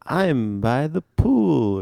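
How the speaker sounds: slow, stretched kid-character attempt; rough go at a game sidekick's voice; Tails. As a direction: try a drawn-out cartoon child voice. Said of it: "His English voice was like".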